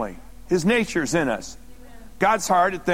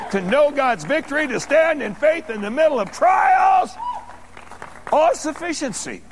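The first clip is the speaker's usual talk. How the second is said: building preaching; 2 semitones higher than usual. Real, not acted. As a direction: build the list phrase by phrase to a shouted climax. Preacher builds a list to a climax.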